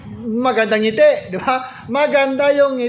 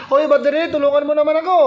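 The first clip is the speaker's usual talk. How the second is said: solar asking for help; 4 semitones higher, much faster than usual. Retold or imitated. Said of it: "Ganon yung boses niyan eh".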